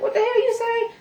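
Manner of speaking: outraged shriek. Retold or imitated. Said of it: "Instead of being like".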